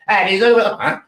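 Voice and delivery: put-on high, startled old lady voice; old lady opening the door, high startled exclamation; surprised old lady. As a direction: squeak it out like a shocked grandma. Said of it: "this old lady opens the door and says".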